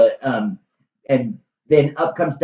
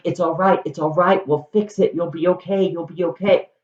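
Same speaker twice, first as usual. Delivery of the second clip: put-on soothing a baby; 3 semitones higher, faster than usual. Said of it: "holding it like a baby".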